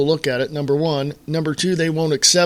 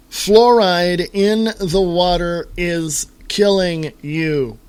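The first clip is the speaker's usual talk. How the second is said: slow emphatic; slower than usual. Shown as a demonstration. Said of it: "any more poignant or direct".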